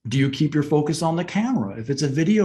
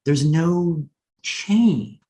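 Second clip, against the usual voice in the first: monotone; 2 semitones higher, much slower than usual. Shown as a demonstration. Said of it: "my voice sounded monotone".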